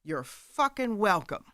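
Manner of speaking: slow, leaning-in delivery as the dad; a light imitation of a father's slow punchline. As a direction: drop it slowly like a wise old man. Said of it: "he leans in and he goes".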